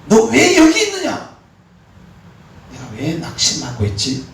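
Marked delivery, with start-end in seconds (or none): 0.1-1.4 high, slow, loud booming question; the Lord's voice calling down, slow and loud; God's question. Pretend. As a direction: call out as God demanding an answer. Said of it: "이렇게 생각해보세요".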